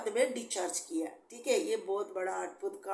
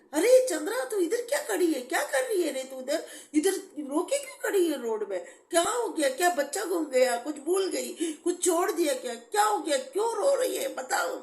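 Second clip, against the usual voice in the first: much higher, louder, anxious questions; rapid-fire concerned friend shouting across; worried friend calling; 7 semitones higher, 5 dB louder than usual. Retold or imitated. Friend finds her crying on road. (घबराई सहेली की ऊँची, तेज़ पुकार)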